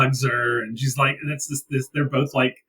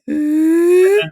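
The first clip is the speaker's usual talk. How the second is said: drawn-out excited cry; 10 dB louder than usual. Real, not acted. Excited reaction.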